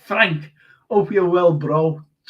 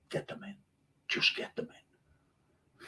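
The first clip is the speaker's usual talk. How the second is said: breathy hush; 14 dB quieter, slower than usual. Real, not acted. Sponsor plug trailing into hush.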